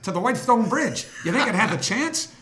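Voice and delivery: mock the call with a lisp. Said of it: "with that little lisp of his".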